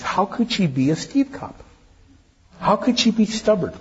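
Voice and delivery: mock disbelief. Mock incredulous pastor questions.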